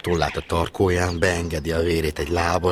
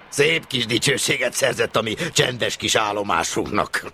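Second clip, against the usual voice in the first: sarcastic; 7 semitones higher than usual. Acted. Chief sarcastic after laughing.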